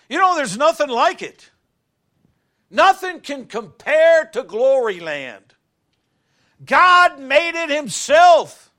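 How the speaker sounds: high, loud, slowed rapture of heaven; soar, stretch the words out; preaching at full force. Real, not acted.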